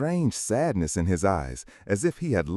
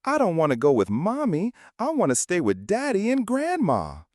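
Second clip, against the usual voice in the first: put-on crying child; 10 semitones higher than usual. A narrator's reading. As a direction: beg through tears like a small boy. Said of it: "the child cried".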